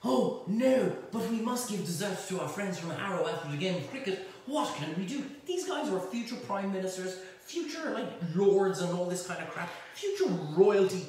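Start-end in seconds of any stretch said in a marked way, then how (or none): 0.0-5.2 higher, fretting mock-posh toff; hammed-up plummy panic; jolly posh fellow. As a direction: Eton boys fretting over dessert, mock-posh fretting. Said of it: "these jolly spiffing fellows were like".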